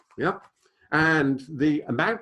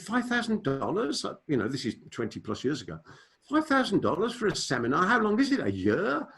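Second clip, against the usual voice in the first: incredulous disbelief; 6 semitones higher than usual. Retold or imitated. Retold shock at seminar price.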